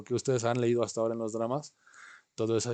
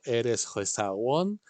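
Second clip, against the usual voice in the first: slow model phrase; 3 dB louder, much slower than usual. Shown as a demonstration. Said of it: "Aquí repiten".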